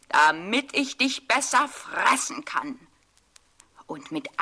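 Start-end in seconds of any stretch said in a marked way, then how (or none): 0.1-2.8 a touch louder, greedy wolf; wolf voice, pouncing. A narrator's reading. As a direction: relish the last word before the leap. (Wolf gierig und etwas lauter vor dem Sprung)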